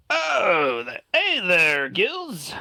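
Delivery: put-on high, friendly hail to an old acquaintance; aquatic elf greeting. Elf hailing the player's character, high and friendly.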